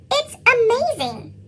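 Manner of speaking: high, slow wide-eyed awe; a child marvelling at the uniform, drawn out in awe; amazed. Acted. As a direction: gush over the uniform, slowly. Admiring a military uniform.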